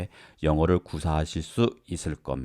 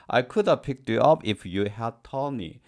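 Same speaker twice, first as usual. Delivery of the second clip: slow, clear example sentence; slow example read; 3 semitones higher, much slower than usual. Shown as a demonstration. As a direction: read it slowly and evenly. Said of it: "example sentence read slowly".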